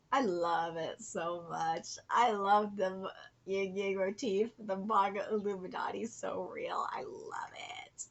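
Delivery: low, slow, sinking into a whisper; hushed adoration. Real, not acted. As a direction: savour it under your breath, slowly. Adoring the artwork.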